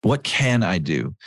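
slow, deliberate asking; earnest question. Shown as a demonstration. Preacher urging the congregation to ask, slow and earnest. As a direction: ask it slowly and mean it. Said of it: "we need to say".

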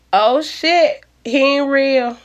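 high, loud sudden exclamation; startled outburst. Acted. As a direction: blurt it out in shock. Sunshine startled realization.

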